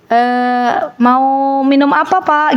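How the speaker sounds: slow, polite attendant offer; flight attendant. Retold or imitated. Preacher imitates a stewardess offering drinks, polite and slow. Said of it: "Gimana bahasanya? Ininya intonasinya?".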